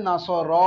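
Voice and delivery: "নাসর, র" with the final র held long; drawn-out vowel. Shown as a demonstration. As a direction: stretch the end of "নাসর, র" to sound the alif. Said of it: "আলিফের উচ্চারণ টানার মাধ্যমে করে". ("নাসর, র"-এর শেষের র টেনে লম্বা করে পড়া)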